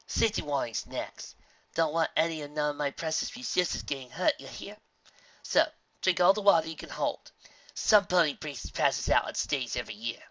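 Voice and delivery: put-on brisk safety briefing, slight rustic accent; lightly voiced folksy mayor. Mayor warning festival visitors about desert dangers, lightly folksy. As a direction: rattle off warnings as a folksy official.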